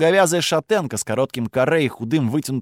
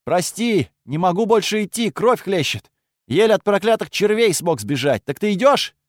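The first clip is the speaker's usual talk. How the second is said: weak voice; 6 semitones higher than usual. Pretend. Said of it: "постарался сделать голос слабым".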